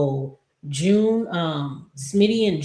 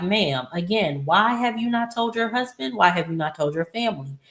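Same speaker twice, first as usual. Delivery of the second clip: exasperated scolding; 4 semitones higher than usual. Acted.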